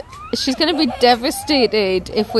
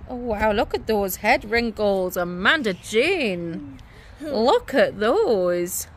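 mock drama; much slower than usual. Real, not acted. Teasing mock-dramatic drawl.

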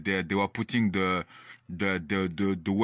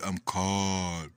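slightly lowered, easy voice; understated, composed reassurance; retold calm reply; 3 semitones lower than usual. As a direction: quote yourself staying calm.

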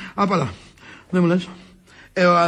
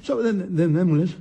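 hasty soothing. Acted. Calming wife after her wail.

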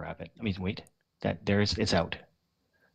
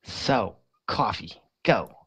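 slow, badly faked New York accent; horrible New York accent; 2 semitones higher, much slower than usual. Joking with gaming friends about coffee, mock New York accent. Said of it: "it's a horrible New York accent".

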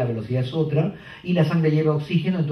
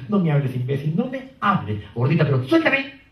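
put-on angry girlfriend; 2 semitones higher than usual. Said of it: "Entra ella así".

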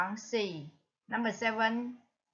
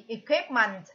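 equipment stressed on QUIP; second-syllable stress. Shown as a demonstration. Teacher gives the answer, equipment stressed on the second syllable. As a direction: hit the middle syllable of equipment. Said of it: "nhấn ở âm số hai".

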